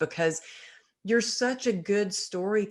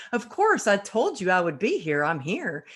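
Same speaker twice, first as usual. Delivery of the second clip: indignant retort. Retold or imitated. Speaker retorts to the coach who doubted she'd show, indignant.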